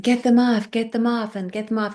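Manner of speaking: high, urgent repeated plea, retold; frantic plea. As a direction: act out struggling to be freed. Trapped under covers, pleading.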